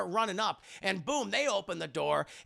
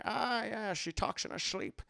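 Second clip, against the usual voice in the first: softer slushy-s father impression; Sean Connery; 6 dB quieter than usual. Father answers how he knew, quiet impression. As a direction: mumble it slyly, s as sh.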